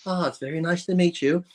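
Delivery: mock doting lover. Bodybuilder presenting his pretend lover to investors, lightly camped up. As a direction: put on a hint of a doting lover's lilt. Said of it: "acting like he was gay".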